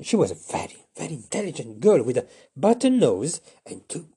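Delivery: ordinary delivery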